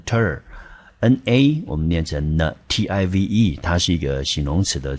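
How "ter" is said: 单独念出ter这个音节; 清楚示范ter的读音; 音节示范. Shown as a demonstration. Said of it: "我们念成ter". (把ter单独念清楚)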